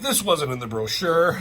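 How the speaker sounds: hammed-up disbelief; indignant complaint. Spider-Man complaining to Wolverine, high and indignant. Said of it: "he's like".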